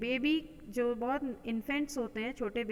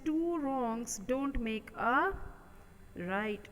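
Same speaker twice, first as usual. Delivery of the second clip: slow dictation; much slower than usual. Shown as a demonstration. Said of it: "reads the proverb slowly".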